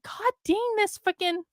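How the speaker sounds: irritated cursing at typos; annoyed. Real, not acted. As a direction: vent real annoyance. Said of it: "I'm so annoyed".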